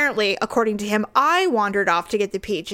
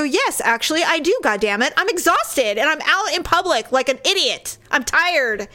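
worked-up, higher-pitched retold complaint; grumpy retort; 4 semitones higher than usual. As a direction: snap back like someone tired and fed up. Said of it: "I was incredibly grumpy".

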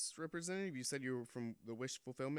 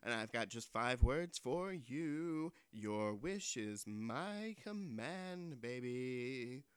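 genie; 4 dB louder, slower than usual. Acted. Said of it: "Jeannie from the Wish Fulfillment Office".

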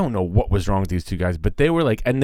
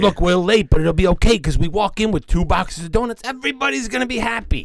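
mock cheery guy; 9 semitones higher than usual. Dumb guy voiced in story.

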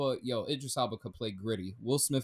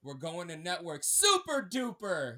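a hint of a pompous anchorman, pitched up; Ron Burgundy; 4 semitones higher than usual. Quoting the movie anchorman to his friend, light pompous impression. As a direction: lightly mimic the newsman's boast. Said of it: "That was Ron Burgundy 'cause he's like".

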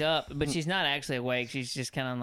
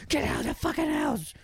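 pretend scary yell; 13 semitones higher than usual. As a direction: yell it to scare a sleepwalker awake. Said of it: "really terrify her".

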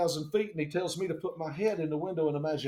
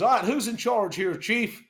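louder, slightly raised pilot voice; mock take-charge pilot; 5 semitones higher, 5 dB louder than usual. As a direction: lightly imitate a brisk man in charge. Pilot takes command on arrival.

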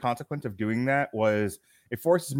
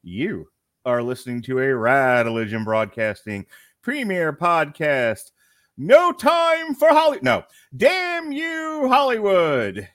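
ringmaster; 7 semitones higher, 4 dB louder, slower than usual. Acted. Podcast intro, circus announcer.

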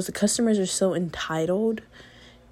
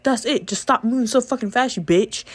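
retold insult; 4 semitones higher than usual. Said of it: "He's like".

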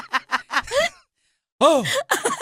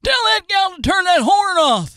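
loud, higher redneck yell; 4 semitones higher, 3 dB louder than usual. Retold or imitated. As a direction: shout at someone across a lot. Same yelling quote, louder.

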